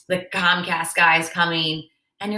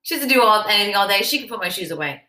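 mock husband gripe; 3 dB louder than usual. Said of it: "'cause he's like".

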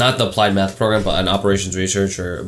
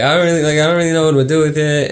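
put-on higher girl voice; 7 semitones higher, 3 dB louder than usual. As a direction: mimic a Cali girl, pitched well up. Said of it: "That's my girl voice".

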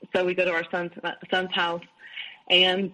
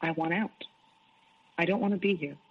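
calm retelling; 4 dB quieter than usual. Retold or imitated. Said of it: "and I very calmly said".

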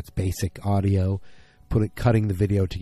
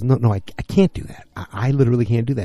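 acted protest; 4 semitones higher, 4 dB louder, faster than usual. Acted refusal in phone argument.

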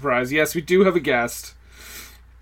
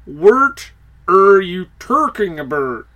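Ermahgerd voice. Pretend. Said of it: "It's the Irma Gerd Burks girl".

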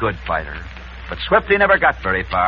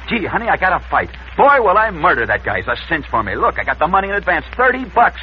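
forced enthusiasm; 2 semitones higher than usual. Acted. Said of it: "he tried to act enthusiastic".

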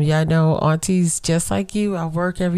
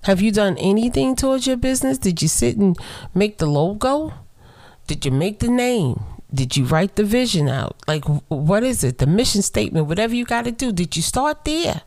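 quoted questions; 5 semitones higher than usual. Retold or imitated. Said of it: "So I asked her".

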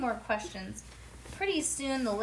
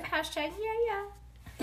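sassy hashtag; 11 semitones higher than usual. Real, not acted. Kids' hashtag game.

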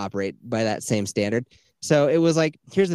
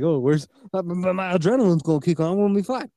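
mock self-assurance; 5 semitones higher than usual. Mocking himself with Cody's boast.

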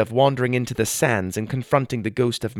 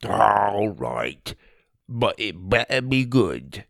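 groaning; slower than usual. A narrator's reading. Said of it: "Tim groaned".

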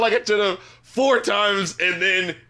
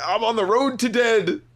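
higher mock quote of the lyric; mocking the phrasing; 4 semitones higher than usual. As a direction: act out the odd line incredulously. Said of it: "Who says it like that?".

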